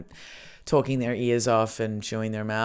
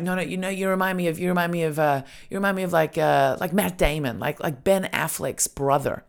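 put-on higher-pitched, searching old Scotsman; 5 semitones higher than usual. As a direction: imitate an old man groping for a name. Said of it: "and then he's like".

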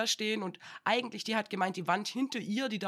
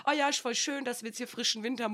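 a light mock chirpy colleague, a bit higher; half-hearted cheerful coworker impression; 4 semitones higher than usual. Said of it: "die eine hat dann so gemeint".

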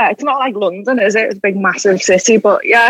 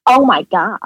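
put-on American accent. Shown as a demonstration. Asked to show off an American accent, put-on American. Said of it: "You want me to do an American accent".

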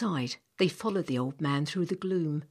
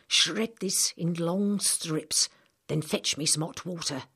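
put-on old man. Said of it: "said the old man".

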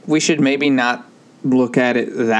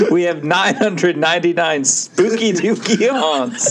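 ghost host voice; 4 semitones higher than usual. Retold or imitated. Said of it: "the ghost host says".

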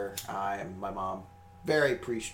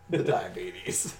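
drawn-out punchline; 6 semitones lower, much slower than usual. Pretend. Drawn-out punchline repeat of the word.

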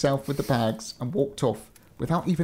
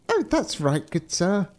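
relieved; 7 semitones higher, slower than usual. Acted. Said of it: "feeling a little better".

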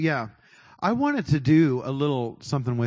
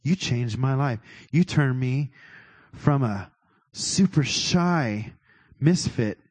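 private prayer. Shown as a demonstration. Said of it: "here's how I would do it if it were me in private".

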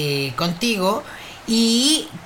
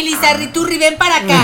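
calling a pet; 6 semitones higher, faster than usual. Pretend.

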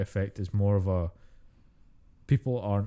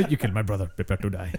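Inigo Montoya. Acted. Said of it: "Spanish orc was gonna be called Inigo Montoya".

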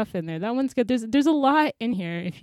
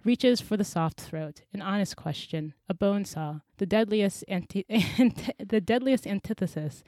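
poem reading; 2 semitones lower than usual. Acted. Reading her poem to the podcast listeners, measured and intense.

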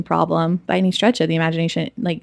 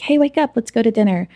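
bright raised call to wake someone; 4 semitones higher, faster than usual. Retold or imitated. Sister calling her groggy brother awake for dinner, raised call.

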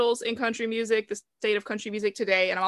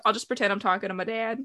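a little bit of a Southern accent; slight Southern accent; faster than usual. Shown as a demonstration. Host pretending to talk to dad, slight Southern accent. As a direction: let a light, quick Southern twang creep in. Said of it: "I get a little bit of one".

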